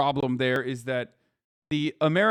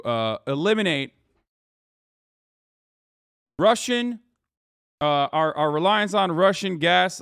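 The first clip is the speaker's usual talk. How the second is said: mock American voice. Streamer mocking Americans in a put-on patriotic voice. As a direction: play the proud average American, a touch overblown. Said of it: "I'm doing an American voice right now".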